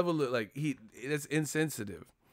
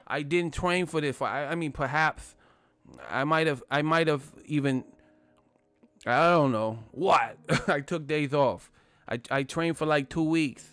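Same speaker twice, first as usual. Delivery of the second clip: Mike Tyson impression; 3 semitones higher than usual. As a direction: play the boxer shrugging off training. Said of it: "The motherfucker said".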